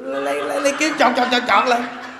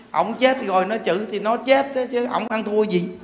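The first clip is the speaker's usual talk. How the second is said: usual speaking voice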